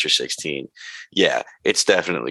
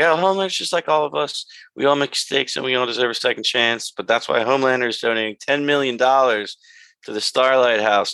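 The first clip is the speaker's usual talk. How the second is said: chirpy spin; 6 semitones higher than usual. Retold or imitated. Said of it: "She was like".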